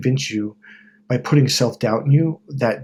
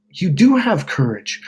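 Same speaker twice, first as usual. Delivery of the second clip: wizard reassurance; 7 semitones higher than usual. Retold or imitated. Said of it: "he goes".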